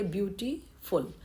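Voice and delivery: ब्यूटीफुल with a break before फुल; broken into syllables. Shown as a demonstration. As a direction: sound out ब्यूटीफुल in parts for counting syllables. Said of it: "बोल के देखिए".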